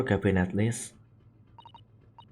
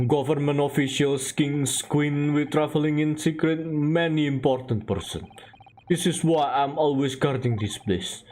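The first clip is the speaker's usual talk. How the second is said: put-on Russian-accented sailor; 3 semitones lower than usual. Sailor showing visitors the first-class cabins, Russian accent. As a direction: show off the ship in Russian accent. Sailor brags about passengers.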